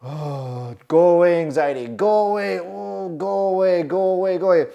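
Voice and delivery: begging the anxiety to leave, under breath; pleading with anxiety. Retold or imitated. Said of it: "breathing techniques".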